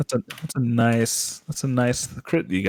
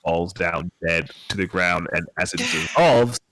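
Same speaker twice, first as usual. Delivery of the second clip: slow storytelling voice; game master narration; 2 semitones lower, slower than usual. A narrator's reading. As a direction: paint the scene slowly.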